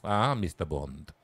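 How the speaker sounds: put-on a villain's slow European-accented greeting; generic European accent. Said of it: "in a generic European accent".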